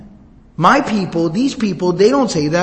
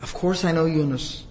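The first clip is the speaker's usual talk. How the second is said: tender; 3 semitones lower, 6 dB quieter, slower than usual. Acted. Prophet answers Addas tenderly.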